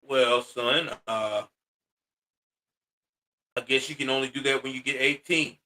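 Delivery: low, soft, hesitant father voice. Acted. Father turns down the teenage suitor, low and subdued. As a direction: answer low and measured, with an awkward pause.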